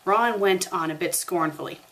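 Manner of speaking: ordinary delivery, nothing marked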